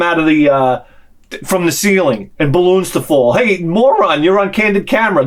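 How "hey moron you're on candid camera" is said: mock prank-show host. Imagined prank-show host's reveal.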